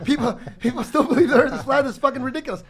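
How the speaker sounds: loud, high-pitched disbelief; incredulous scoffing. Retold or imitated. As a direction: exclaim it as if it's absurd, voice way up. Retells scoffing at flat Earth.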